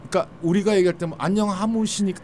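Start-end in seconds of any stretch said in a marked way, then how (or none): 1.2-2.2 Japanese accent Korean. Shown as a demonstration. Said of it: "이렇게 안 해요".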